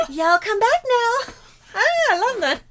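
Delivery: giggling through the line; laughing. Acted. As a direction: repeat it while cracking up. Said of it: "I didn't know how much I wanted to say that".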